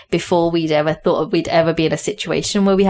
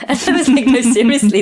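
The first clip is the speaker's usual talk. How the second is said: laughing; 7 semitones higher, 5 dB louder than usual. Real, not acted. Laughing recalling husband's disbelief.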